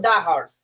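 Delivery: "the horse" with "the" said as দা. Shown as a demonstration. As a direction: say "the" with an open "aa" before horse. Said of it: "এখানে লিখছি আমি দা". ("the horse"-এ the-কে দা উচ্চারণ)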